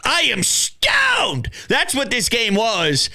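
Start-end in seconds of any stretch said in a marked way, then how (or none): 0.0-1.5 stoned thought. Retold or imitated. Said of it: "you're thinking".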